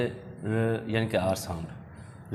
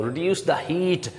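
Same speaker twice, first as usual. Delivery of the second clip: slow teaching read; 5 semitones higher, much slower than usual. Shown as a demonstration.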